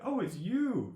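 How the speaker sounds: high, loud teasing squeal; mock cackling tease. Imitating Brittany teasing him about the gangly card, high loud squeal. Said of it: "She'd be cackling and be like".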